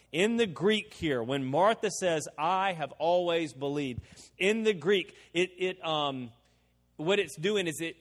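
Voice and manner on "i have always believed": "I have" given firm emphasis; stress on I HAVE. Shown as a demonstration. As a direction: lean on the words "I have". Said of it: "puts emphasis on the words, "I have".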